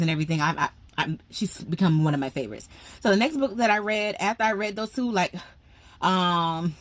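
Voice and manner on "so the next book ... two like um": breathless from excitement; out of breath. Real, not acted. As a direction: talk winded. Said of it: "I'm out of breath".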